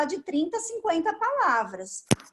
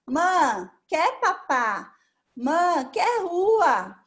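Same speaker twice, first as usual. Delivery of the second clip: put-on toddler talk; much slower than usual. Shown as a demonstration. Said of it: "frases simples".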